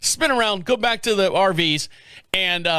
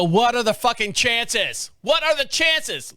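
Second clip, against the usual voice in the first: exasperated disbelief; 5 semitones higher, slower than usual. Retold or imitated. Finds the stall occupied.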